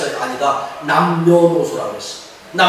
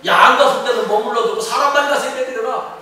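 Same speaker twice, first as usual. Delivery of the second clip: Pharaoh; 6 semitones higher than usual. Acted. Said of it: "또 타협을 하는 거예요".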